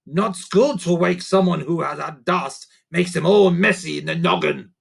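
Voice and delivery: a little creature offering advice; helpful creaker. Acted. Sniff creature voice.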